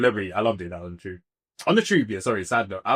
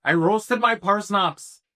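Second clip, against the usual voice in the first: slower, higher mock Bristolian burr; Bristolian accent; 4 semitones higher, slower than usual. Speaker joking about roasted parsnips, slow mock Bristolian accent. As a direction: put on a Bristolian farmer's accent. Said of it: "That Bristolian accent".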